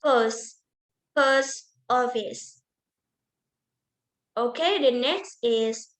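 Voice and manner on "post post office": slow "post office", dropping at the end; falling intonation. Shown as a demonstration. Teacher repeating the falling example phrase, falling intonation. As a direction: say "post office" slowly, letting the voice fall. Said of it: "this is falling intonation".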